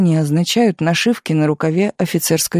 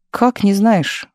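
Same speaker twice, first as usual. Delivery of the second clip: surprised; 4 semitones higher, slower than usual. Acted. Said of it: "удивился Миша".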